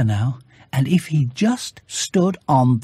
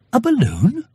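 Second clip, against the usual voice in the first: put-on boy's greeting; 9 semitones higher than usual. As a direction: answer like a small boy. Boy surprised question.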